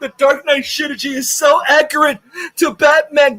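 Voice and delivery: high mock-gushing fanboy shout. Ranting vlogger mocks fans who praise the Dark Knight, in a high mock-gushing shout. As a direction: ham up a dumb fan raving. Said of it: "they'll lie up and down and be like".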